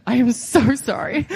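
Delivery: slow, drawn-out apology with stretched "so"; emphatic apology. Retold or imitated. Wrestler apologizing to an annoyed partner, emphatic and drawn out. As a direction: plead sorry, dragging it out.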